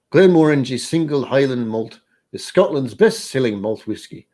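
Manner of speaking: reading a whisky blurb in a hammed-up Scottish accent. Streamer reads the official notes to viewers in a mock Scottish accent. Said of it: "Gosh, Scottish accent".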